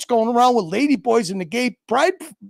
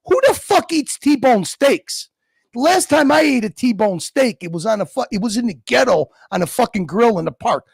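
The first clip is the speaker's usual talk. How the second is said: incredulous; 3 semitones higher than usual. Real, not acted. Incredulous rant about steaks.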